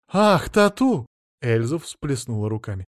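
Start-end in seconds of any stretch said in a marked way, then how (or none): 0.1-1.1 higher, louder delighted cry; excited gasp. Acted. Wife thrilled by the fortune teller's guess, excited gasp. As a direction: gush with sudden delight.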